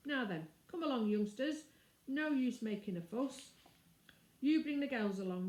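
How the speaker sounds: businesslike constable rounding them up; stolid policeman. Acted. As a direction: policeman herding the children off. Policeman arrests the children.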